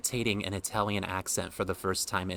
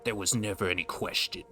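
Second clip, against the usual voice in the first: dropping the G's; 3 semitones lower than usual. Acted. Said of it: "I'm taking the G's out of the words".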